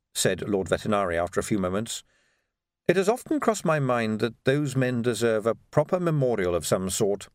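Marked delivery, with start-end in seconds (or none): 2.9-7.3 lightly voiced, measured aristocrat; a hint of an unruffled ruler; suave patrician, musing. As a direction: float the idea with dry politeness.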